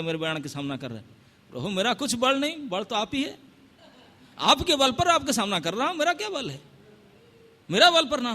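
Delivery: usual speaking voice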